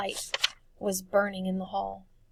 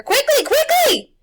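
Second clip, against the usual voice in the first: high, loud and slow, pressing; urgent yell; 16 dB louder, slower than usual. A narrator's reading. Old woman urging the boys as the beast swoops, yelling. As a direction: hurry them with every breath.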